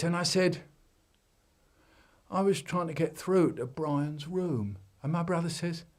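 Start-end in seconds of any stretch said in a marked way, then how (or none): 2.3-4.8 put-on child voice. Child explaining.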